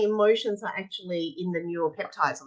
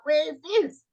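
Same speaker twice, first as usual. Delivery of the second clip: teacher question; 10 semitones higher than usual. Shown as a demonstration. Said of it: "I'm like".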